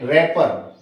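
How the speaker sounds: रैपर starting straight on R; silent W. Shown as a demonstration. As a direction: say रैपर with no W sound. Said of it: "डब्ल्यू को silent छोड़ेंगे".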